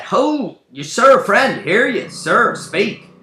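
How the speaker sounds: high, loud hailing in a put-on voice; new role's voice. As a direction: call out urgently to a fallen stranger. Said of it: "He plays a new role, new accent".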